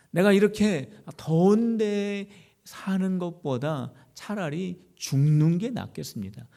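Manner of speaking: acting out a fed-up prophet's complaint; mildly dramatized, irritated pleading; exasperated plea. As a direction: imitate someone worn out and begging God. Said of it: "너무 짜증이 나고 너무 힘들고 너무 괴로운".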